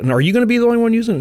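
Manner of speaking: put-on very high, very fast suspicious old man; old prospector. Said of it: "it's an old prospector guy".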